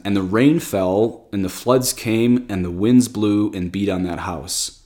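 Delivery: slow, deliberate reading of the verse; measured verse reading; slow scripture reading. Acted. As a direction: read it out again, unhurried. Rereads verse slowly.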